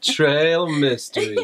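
slow, badly faked Southern drawl; mock Southern accent. Husband butchering card names, slow mock Southern accent. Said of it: "I'm just butchering it".

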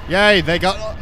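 ordinary talk, nothing marked

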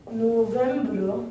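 "November" slowly, first syllable held; slow teaching take of "November", French ending; drawn out. Shown as a demonstration. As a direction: stretch "November" into "no-vembre". Teacher stretches the word for learners.

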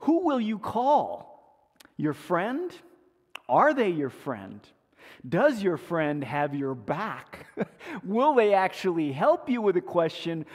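lightly hammed-up game show host. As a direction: tease the contestant like a quiz host. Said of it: "they start the show and they say".

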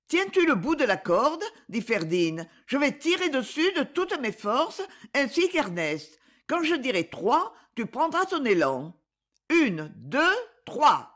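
rally him to climb on three; urgent girl rescuer. Acted. Ferdinand directs the rescue.

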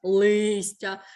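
"листя" with the first syllable stressed and clear. Shown as a demonstration. Teacher showing the audible root vowel, stressed И in "листя". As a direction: let the И in "листя" ring out clearly. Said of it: "У корені слова чітко чути".

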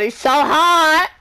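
hammed-up swoon; mock gushing. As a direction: swoon over him, hammed up. Gushing over a character.

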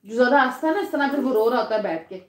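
a mother's quiet lecture from across the room. Real, not acted. Mother scolds laughing kids off-mic.

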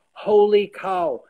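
a slow, loud, high holy cow; amazed exclamation. Real, not acted. Telling a friend how much Russia changed, amazed and slow. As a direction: let the wonder spill out.

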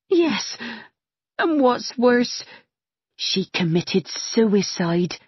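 lightly voiced gossiping maid, slow; a hint of a servant relishing the gossip; slow, lightly voiced maid lingering over bad news. Maid Partridge breaks bad news.

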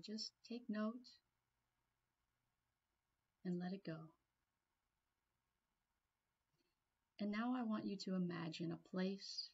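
calm meditation guide, long pauses between phrases; guided meditation. Real, not acted. Trainer guiding a listener into a peaceful place, guided meditation. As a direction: ease them gently into relaxing, leaving room to breathe.

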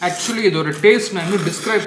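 slurping noodles mid-speech; talking while chewing food; mouth full of noodles. Real, not acted. Seen 0: Noodles hang from his mouth to 1.3s; he talks freely after.

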